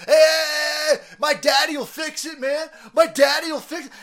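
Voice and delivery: high, loud spoiled-brat yell; bratty shout. Acted. Spoiled son shouting that his father will fix it, high loud bratty yell. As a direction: holler it like a spoiled kid.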